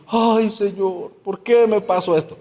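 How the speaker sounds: drawn-out, whiny mock lament; mock crying. Preacher imitates believers crying to God after being humbled, mock crying. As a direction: wail lightly, as if pretending to cry to God. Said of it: "Y luego estamos llorando".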